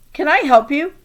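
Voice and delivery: a hint of the librarian asking; lightly voiced librarian.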